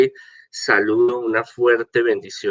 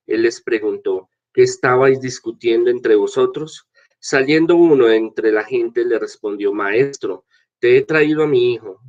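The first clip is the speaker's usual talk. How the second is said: scripture reading; 2 semitones higher than usual. Acted. Priest reads the gospel aloud.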